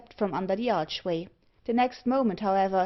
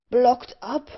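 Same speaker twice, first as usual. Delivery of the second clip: loud, higher cry of dismay; exclaimed; 4 semitones higher, 7 dB louder than usual. A narrator's reading. Thorneycroft learns the road is blocked, exclaiming loudly. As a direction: burst out in shocked disbelief. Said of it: "exclaimed Thorneycroft".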